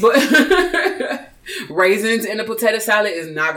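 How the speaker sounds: amused, laughter breaking in as you talk; laughing playful warning. Real, not acted. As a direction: joke through a laugh. Joking about cookout rules, laughing.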